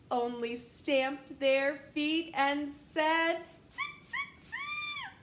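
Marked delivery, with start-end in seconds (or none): 3.7-5.1 very high shouted monkey tutting; shrieking monkeys mocking the peddler; shrill monkey tut. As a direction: tease him like a cheeky monkey.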